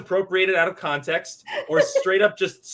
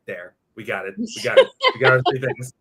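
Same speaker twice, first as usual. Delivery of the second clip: hammed-up victory cheer; mock triumphant; 6 semitones lower, 6 dB louder than usual. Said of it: "he's like".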